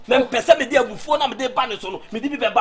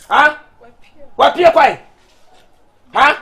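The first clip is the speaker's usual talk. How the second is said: angry scolding; 4 dB louder than usual. Acted. Angry father scolding at home.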